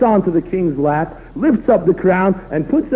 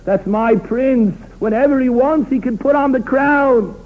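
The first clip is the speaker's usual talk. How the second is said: fond king; 2 semitones higher than usual. Retold or imitated. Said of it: "the Melech says".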